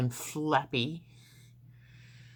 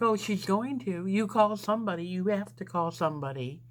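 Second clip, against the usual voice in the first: insistent demand; 4 semitones higher than usual. Retold or imitated. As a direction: push them to call somebody. Patient insisting nurses call someone.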